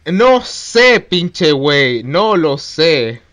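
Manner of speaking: slow, loud put-on Mexican Spanish; Mexican accent. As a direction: lean into a Mexican lilt. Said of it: "tienes como una cadencia mexicana". (con acento mexicano exagerado)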